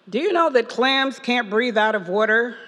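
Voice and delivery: friendly priest's praise, only lightly put on, with a chuckle; Father Jim's voice. Father Jim praising Lydia's asylum work, lightly voiced priest. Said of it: "let me get his voice".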